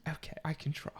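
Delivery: put-on affected British accent. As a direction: keep up the playful British accent. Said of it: "Let's keep that up".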